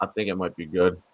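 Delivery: robotic glitchy call audio; garbled robot voice over a bad connection. Real, not acted. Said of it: "like a robot".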